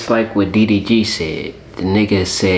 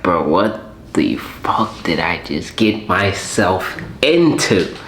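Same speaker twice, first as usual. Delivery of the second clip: unhappy regret; 4 semitones lower, slower than usual. Acted. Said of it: "He don't look happy".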